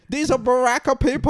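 high, loud hammed-up Asian accent; mock Asian accent. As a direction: shout it in the caller's put-on Asian accent. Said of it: "Doing the accent".

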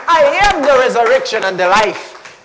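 a preacher booming the verse; loud proclamation. Acted. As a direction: declare it loud. Proclaiming again.

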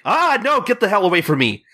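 high-pitched mock panic; imitated yelp of alarm; Gintoki. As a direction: recoil in mock disgust, quick and high. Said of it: "Gintoki is basically like".

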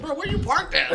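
annoyed question. Retold or imitated. Annoyed narrator quoting himself.

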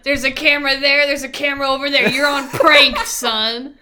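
loud, gleeful prank reveal; prank reveal laughing. Pretend. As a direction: crow that it's a prank.

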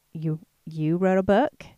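snarky. Retold or imitated. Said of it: "this little snarky attitude from people".

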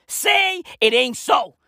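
slow, stretched-out plea; slowly wailed repeat of the line; drawn-out exclamation. Acted. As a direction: draw each word right out.

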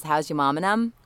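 New Orleans Yat local; casual New Orleans greeting; New Orleans accent. Shown as a demonstration. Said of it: "things to say when you're from New Orleans".

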